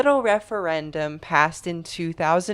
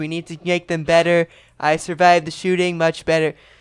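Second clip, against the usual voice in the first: put-on blustery politician voice, louder; 4 dB louder than usual. Retelling a joke made while watching the news: Donald Trump impression. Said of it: "my impression of Donald Trump".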